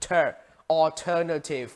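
"alternative" stressed on TER; second-syllable stress. Shown as a demonstration. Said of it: "nhấn âm hai".

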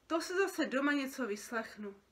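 mild dejected grumble; unhappy sigh. Acted. Creature expecting a telling-off at home, mildly miserable sigh. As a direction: sigh it out, dreading trouble. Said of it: "Povzdechla si další z bytostí a nešťastně".

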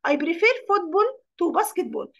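very slow, stress on prefer; slow dictation. Shown as a demonstration. Teacher reading the example sentence to pupils, very slow. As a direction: dictate word by word.

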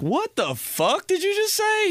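high-pitched, drawn-out mock bewilderment; baffled disbelief. Son answering dad's strange Italian, high incredulous mock outburst. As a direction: squeal it, acting totally baffled. Baffled reply to dad retold.

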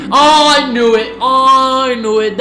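high, loud triumphant cry; excited yell. Real, not acted. Fan proven right, crying out high and loud. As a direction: crow that you called it.

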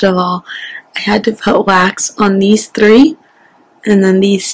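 speaking with finger in mouth corner; talking while stretching lip; lip pulled down by finger. Real, not acted. Seen 2: Finger pulls lower lip down showing braces, recurring through the labelled words.

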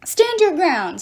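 loud, high shout to the troops; rally them, yell it out; yelled rally cry. A narrator's reading. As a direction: battlefield yell to hold the line. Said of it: "Stheno yelled".

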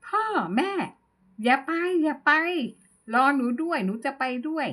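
a retold, lightly acted tearful plea; mock crying plea. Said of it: "ร้องไห้ออกมา".

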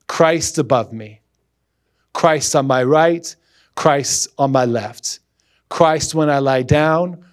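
reverent reading of Saint Patrick's prayer; poem reading. Acted. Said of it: "read a portion of a poem".

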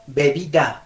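"bebida" con los dos labios; B bilabial. Shown as a demonstration. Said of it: "la diferencia entre las dos Bs". ("bebida" con be labial)

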